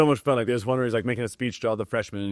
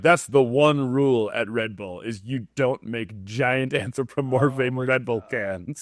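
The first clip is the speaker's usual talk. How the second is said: emphatic rule-giving; slower than usual. Retold or imitated. Mocking company's rule, drawn out.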